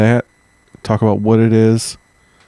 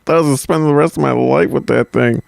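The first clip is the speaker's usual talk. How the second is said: hammed-up German accent, higher-pitched exclamations; 3 semitones higher than usual. Shown as a demonstration. Co-host redoes his relieved husband bit on request, in German accent. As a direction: show off your practised German accent, stretching the oaths. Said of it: "did not comment on my German accent".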